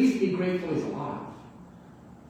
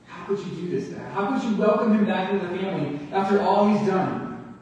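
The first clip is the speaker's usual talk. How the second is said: angry son. Retold or imitated. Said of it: "He's angry at his father".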